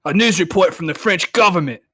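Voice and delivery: hammed-up British newsreader drifting Australian; mock British accent. Reader voicing a BBC special report, wobbly British-Australian accent. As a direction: do a bad British accent, reporting grave news. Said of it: "You made him Australian as fuck".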